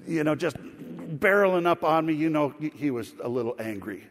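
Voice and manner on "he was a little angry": low, dry understatement; understated. Acted. Storyteller downplays the other driver's anger, understated. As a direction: play it down, lower. Understatement, then corrected upward.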